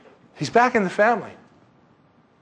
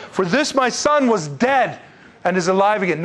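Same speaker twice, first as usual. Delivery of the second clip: father's proclamation; 5 semitones higher than usual. Acted. Preacher reads the father's words to the congregation, emphatic proclamation. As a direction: proclaim it with weight on each word.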